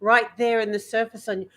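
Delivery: off-the-cuff Irish accent, placed forward in the mouth; light Irish accent, sounds sitting right on the lips. Shown as a demonstration. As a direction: improvise an Irish accent, close to British but further forward. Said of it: "I'm just kind of doing it off the cuff".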